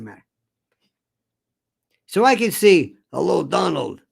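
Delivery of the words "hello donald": lightly voiced Putin greeting; a hint of a Russian leader; mock Putin voice. Putin greets Trump on the phone: light mock Russian. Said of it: "Why I'm doing this voice".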